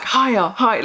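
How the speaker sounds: retold eager urging; excited. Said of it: "she was so excited to tell us".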